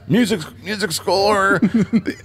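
breathless and laughing, slowing; running out of air reading; out of breath. Real, not acted. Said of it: "He's running out of breath".

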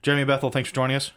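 rushed, quick delivery; talking fast. Real, not acted. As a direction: rattle it off fast. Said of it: "I am talking fast".

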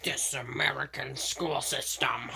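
slow dramatic whisper. Acted. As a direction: breathe it out, slow. Mock whispered comment.

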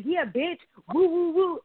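high-pitched mock triumphant whooping; mock tough hype. Thought she was going in on her, mock hype.

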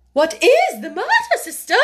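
high, startled outcry; startled sister's high voice; alarmed exclamation. A narrator's reading. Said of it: "she ejaculated".

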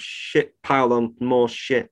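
ordinary delivery

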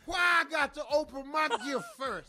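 put-on picking a fight drunk. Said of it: "The start a fight drunk".

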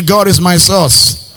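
slow, loud declaration. Shown as a demonstration. Pastor leading the congregation in declaring faith, loud. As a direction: call it out as a confession of faith.

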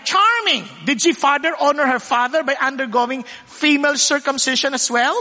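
mock sarcastic quote, lightly voiced; sarcastic reading of a comment. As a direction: read it with a sneer in the voice. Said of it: "Very sarcastic".

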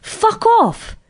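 high, drawn-out cursing; exasperated outburst. Acted. Performer answering those who call her bitchy, high and exasperated. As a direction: let it rip in mock outrage. Acted retort to being called bitchy.

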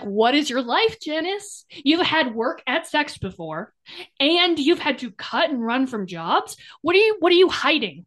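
exasperated grilling of a fictional character; mock interrogation. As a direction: demand answers in playful disbelief. Mock-confronting a book character.

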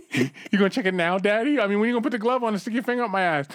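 a pushy, eager patient rushing the doctor; eager friend. Retold or imitated. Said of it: "waiting to pull his pants down".

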